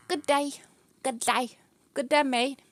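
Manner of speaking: loud playful British greeting; hammed-up British hello to the cat; mock British accent. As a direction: toss off a jokey British good day. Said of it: "I just sort of randomly sound British sometimes".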